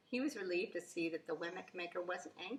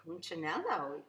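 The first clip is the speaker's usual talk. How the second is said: calm and kind. Acted. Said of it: "Eli's voice was calm and deep and kind".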